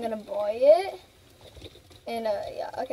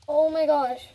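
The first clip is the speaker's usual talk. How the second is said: voice crack; 5 dB louder than usual. Real, not acted. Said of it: "After a voice crack".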